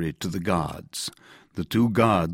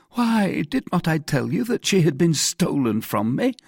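high, loud, anxious prisoner; protesting Bonacieux; 11 semitones higher, 5 dB louder than usual. Acted. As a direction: protest your innocence urgently.

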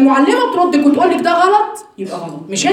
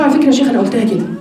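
quick retort; much faster than usual. Retold or imitated. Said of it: "قلت له".

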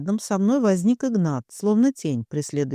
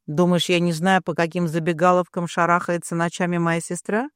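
usual speaking voice

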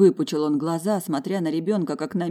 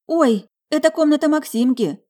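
sudden exclamation; 11 semitones higher, 8 dB louder than usual. Acted. Woman cuts in, exclaiming.

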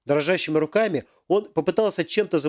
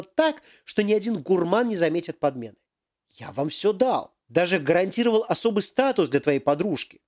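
higher, hammed-up indignant professor; angry professor; 3 semitones higher than usual. Professor confronts Yaroslav over the missing device, indignant. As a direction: demand answers like a cheated boss.

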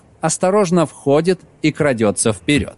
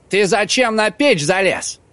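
rough; 6 semitones higher than usual. Acted. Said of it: "Пепел грубо".

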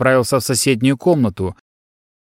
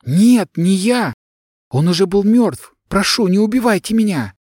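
much higher, pleading scream; terrified cry; 7 semitones higher than usual. Acted. Girl begs the armed son, high terrified plea. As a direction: beg for your life, panicked. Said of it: "закричала она".

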